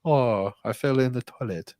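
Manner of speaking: mocking, mild woe-is-me quote; mock innocent. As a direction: imitate a harmless little complaint.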